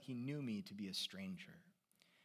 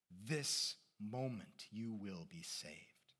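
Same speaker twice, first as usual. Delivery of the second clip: solemn warning; 2 semitones lower than usual. Acted. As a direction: weigh each phrase gravely. Preacher solemnly warns the young man.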